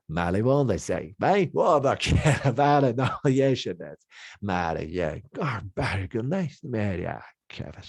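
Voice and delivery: laid back Australian gibberish accent; loose, easy Australian-sounding babble; laid back Aussie. Shown as a demonstration. Teacher demos a laid back Australian accent. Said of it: "more like an Aussie kind of sound".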